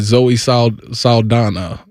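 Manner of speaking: halting, drawn-out attempt at SALDANA; unsure pronunciation. Real, not acted. Co-host unsure of the actress's name, hesitant SALDANA. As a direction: stumble on SAL-, then finish SALDANA tentatively. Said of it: "Did I say that right?".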